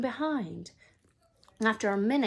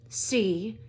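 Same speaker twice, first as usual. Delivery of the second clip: mouth full. Acted. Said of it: "through a mouthful of nails".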